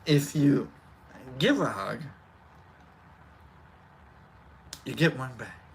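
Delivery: very low, soft, halting delivery; Brock. Pretend. Streamer reminding chat about hugs, low soft impression. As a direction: drop the pitch right down, long pauses between phrases. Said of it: "In Brock, remember".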